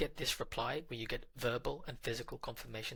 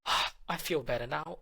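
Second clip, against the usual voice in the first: higher, louder relieved ah; relieved sigh; 4 semitones higher, 7 dB louder than usual. Retold or imitated. Girlfriend telling partner she feels better, relieved and bright. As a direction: let it out like a weight just lifted.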